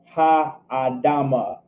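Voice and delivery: "ha adama" stretched out slowly; slow teaching repeat, vowels of "ha adama" held long; slow pronunciation demo. Shown as a demonstration. Teacher repeats Hebrew phrase slowly.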